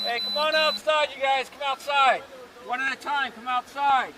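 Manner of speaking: loud, slow command over a loudspeaker; booming PA order to come out; loudspeaker announcement. Real, not acted. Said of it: "I'll probably get on the loudspeaker".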